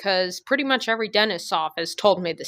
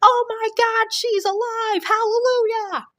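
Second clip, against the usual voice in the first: overjoyed mom. Retold or imitated. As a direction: shriek with mock relief. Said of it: "my mom's like".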